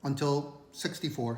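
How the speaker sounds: talking with food in mouth; mouth full. Real, not acted. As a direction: speak through a mouthful. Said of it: "Sorry if I have food in my mouth".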